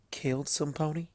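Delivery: soft, hushed question; whisper. A narrator's reading. Applejack nervously asks the princess, hushed whisper. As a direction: drop the voice to a near whisper. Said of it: "her voice dropped to a whisper".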